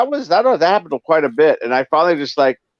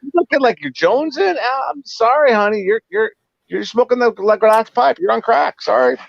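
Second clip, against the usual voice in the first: higher, teasing singsong mock sympathy; mocking, sarcastic retort; 10 semitones higher than usual. Driver mocking the mom who owes money, high sarcastic voice. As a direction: sneer it like fake pity.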